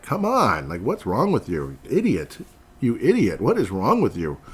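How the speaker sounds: imitating an angry coach on the sideline; mock coach yelling. Coach LaFleur yelling at the defensive tackle, mock scolding.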